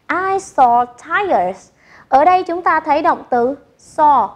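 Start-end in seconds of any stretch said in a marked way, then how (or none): 0.1-1.7 slow, even repeat of the model. Shown as a demonstration. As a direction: say it again slowly for the class. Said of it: "we say".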